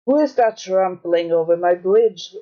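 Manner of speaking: lightly voiced troll roar. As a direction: growl it like a troll. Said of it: "roared the troll".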